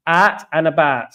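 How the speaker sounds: slow Cockney "Out and about", with "out" as "at"; Cockney accent on "Out and about". Shown as a demonstration. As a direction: spell out the Cockney vowels slowly in "Out and about". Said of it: "Cockney accent out for out and about".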